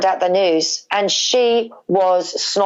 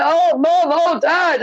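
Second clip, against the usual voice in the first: imitating crying daughter; 8 semitones higher, much slower than usual. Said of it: "crying, and she was like".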